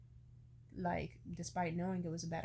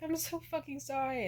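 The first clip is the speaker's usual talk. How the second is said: retold crying apology; 8 semitones higher, 4 dB louder than usual. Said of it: "I just kinda broke down crying".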